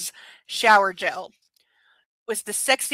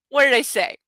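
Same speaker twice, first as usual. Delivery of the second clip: gloating; 4 semitones higher, 5 dB louder than usual. Real, not acted. Gloating at being right.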